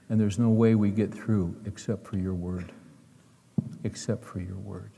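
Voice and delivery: hushed pastoral prayer; closing prayer. Acted.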